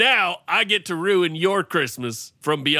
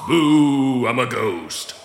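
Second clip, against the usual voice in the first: ghostly chest voice; 4 semitones lower, slower than usual. Acted. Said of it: "You don't like my ghostly chest voice".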